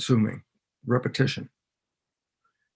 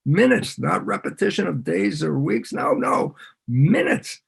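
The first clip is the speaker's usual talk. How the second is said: excited insistence; 6 semitones higher than usual. Real, not acted.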